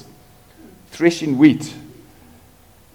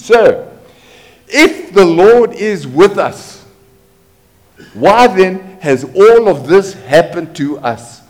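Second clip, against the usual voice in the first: pleading Gideon; 3 semitones higher, 3 dB louder, slower than usual. Acted. Preacher voices pleading Gideon.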